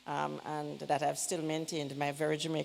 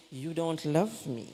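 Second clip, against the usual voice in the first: slow, pointed quote at normal level; quoting a child who says it to wound; child's guilt trip; slower than usual. Retold or imitated. A child telling mother she's unloved, mildly pointed. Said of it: "mother when they say".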